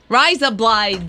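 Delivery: blended Australian "razor blades"; Australian accent. Shown as a demonstration. Host trying the colleague's trick, Australian accent. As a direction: run the words together in Australian.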